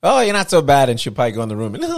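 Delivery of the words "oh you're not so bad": high, loud mock-grudging mum; imagined mum. Host imagining mum watching the show, high grudging praise. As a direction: play mum giving faint praise, pitched up. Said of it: "your mom will sit there and be like".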